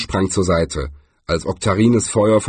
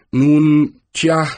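put-on elderly wizard voice; 6 semitones higher, 5 dB louder than usual. A narrator's reading.

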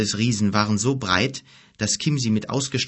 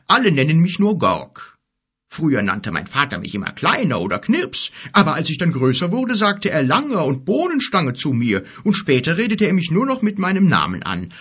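big friendly giant, higher and louder; 6 semitones higher, 4 dB louder than usual. A narrator's reading. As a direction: voice a cheerful good-natured giant. Narrator voices the giant Gorg.

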